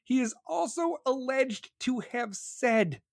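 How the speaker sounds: slow, hushed, high-pitched read; slow mock-ominous narration; dramatic reading. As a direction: draw it out with mock gravity. Repeats the line as dramatic reading.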